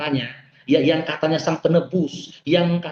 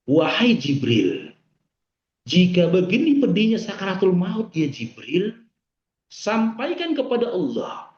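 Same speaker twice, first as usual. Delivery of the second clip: moved, pleading quote; 4 semitones higher, slower than usual. Retold or imitated. Quoting the Prophet's plea, moved.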